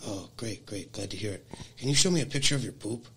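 a hushed mock English charmer; mock English creep. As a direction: purr it like a creepy Brit. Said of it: "he's from England".

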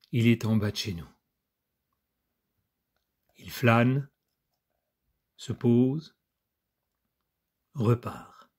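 measured reading aloud with weighted pauses; poised back-cover recital; literary reading. Acted. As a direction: read it out phrase by phrase, letting endings sink. Reads the book's back cover aloud.

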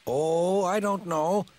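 high, slow, gentle disagreement; lightly voiced old tram musing; mild Toby voice. A narrator's reading. Toby gently disagreeing with Thomas about paint. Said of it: "said Toby".

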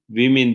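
"women" said as "vimin"; plural pronunciation. Shown as a demonstration. Teacher showing how the plural is read, "women" as "vimin". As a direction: say "women" with short i sounds, vimin. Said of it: "diye okunuyordu".

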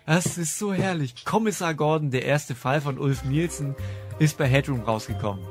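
usual speaking voice

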